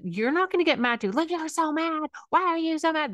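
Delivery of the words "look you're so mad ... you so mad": much higher, impatient and scolding; the wrong way, nagging the angry kid; exasperated parent. Shown as a demonstration. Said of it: "That's not mirroring".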